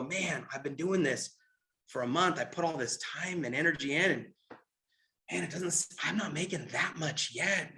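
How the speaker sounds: new recruit losing faith after a month; discouraged. Retold or imitated. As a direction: trail off, losing heart. New person doubting their business.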